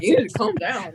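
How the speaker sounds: half-laughing quote of the order; laughing retell. Retold or imitated. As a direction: repeat it through a laugh. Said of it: "He's like".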